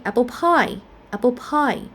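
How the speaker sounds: "apple pie" with the weight on PIE; stress on pie. Shown as a demonstration. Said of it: "stress in the second element here".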